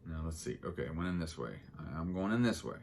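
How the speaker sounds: talking while chewing gum; words round a wad of gum. Real, not acted. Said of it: "Trying to talk and chew gum".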